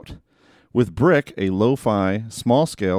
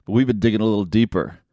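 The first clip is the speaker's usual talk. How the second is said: noir detective. Acted. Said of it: "this whole detective voice thing".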